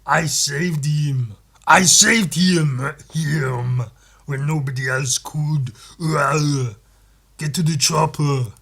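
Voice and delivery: put-on slow, loud Austrian-accented boast; Arnold as House. Arnold-House defending himself to a colleague, slow Austrian accent. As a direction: drag out the Austrian vowels proudly. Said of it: "House if it was played by Arnold".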